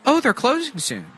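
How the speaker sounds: squeaky high imitation of a shopper; high mocking voice. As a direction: pitch it way up and mock her. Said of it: "She's like".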